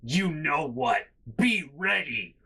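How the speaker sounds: slow, emphatic mock command; imitated fed-up mom. Mom ordering kid to be ready, mildly mock-angry. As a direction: imitate a mother losing patience, word by word. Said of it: "she looks at me and she goes".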